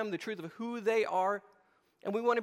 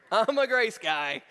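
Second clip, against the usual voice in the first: drawn-out, slower pleading repeat; slow mock plea; 5 dB louder, slower than usual. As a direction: stretch the words, begging for leniency. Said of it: "I go".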